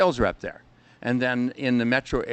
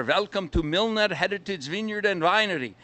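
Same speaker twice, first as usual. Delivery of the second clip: put-on Central European accent; 5 semitones higher than usual. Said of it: "my Central European accent".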